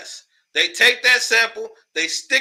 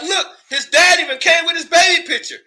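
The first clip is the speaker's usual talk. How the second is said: mock quote; 7 semitones higher, 5 dB louder than usual. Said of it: "then y'all got mad, like".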